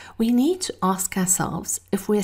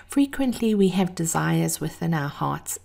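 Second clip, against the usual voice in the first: breathy vintage purr; 2 semitones lower than usual. Real, not acted.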